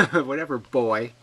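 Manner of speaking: laughing and loud, brushing him off; laughing dismissal. Real, not acted. To the troll, a loud laughing brush-off.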